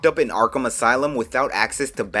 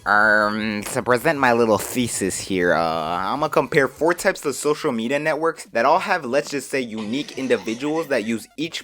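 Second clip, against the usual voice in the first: nerd voice. Acted. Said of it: "that nerd voice".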